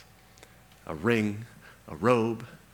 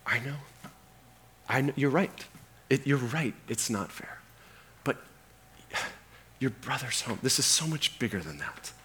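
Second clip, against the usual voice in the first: gentle father; 2 semitones higher, 5 dB quieter than usual. Acted. Father gently answers the son.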